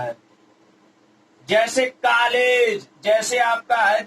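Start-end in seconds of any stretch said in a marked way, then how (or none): 1.5-2.9 कॉलेज with the open English ऑ, drawn slowly; borrowed vowel. Shown as a demonstration. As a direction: stress the ऑ in कॉलेज. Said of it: "इसे आगत स्वर बोलते हैं".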